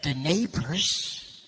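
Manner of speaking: low, slow conspiratorial exchange; mock secretive chat. Mum and son talking news, low slow mock secrecy. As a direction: lean in, drawl it suspiciously. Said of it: "She's like".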